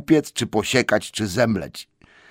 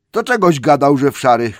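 much higher, much louder yell; troll shout; 7 semitones higher, 9 dB louder than usual. Acted. Bert shouts at William about grey stockings. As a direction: bellow the accusation. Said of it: "krzyknął Bert".

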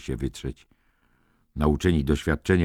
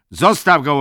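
firm command; 11 semitones higher, 9 dB louder than usual. A narrator's reading. McMurphy intervenes.

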